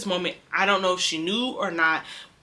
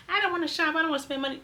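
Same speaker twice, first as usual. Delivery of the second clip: higher-pitched reluctant excuse; mock whining; 9 semitones higher, 4 dB quieter, faster than usual. Retail worker protesting shopping, mock whining. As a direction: imitate someone grumbling about having to do it.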